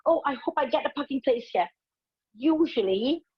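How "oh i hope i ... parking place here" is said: anxious hoping. Retold or imitated. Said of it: "a driver who's always hoping".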